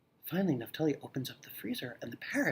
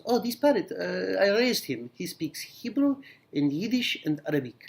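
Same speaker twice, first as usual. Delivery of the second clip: shop owner voice; 6 semitones higher, 3 dB louder, slower than usual. Acted.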